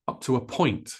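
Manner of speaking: "up to a" quick, "point" stressed. Shown as a demonstration. Teacher modelling the phrase for learners, stress on "point". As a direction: hurry "up to a" and land on "point". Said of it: "notice how fast I say this".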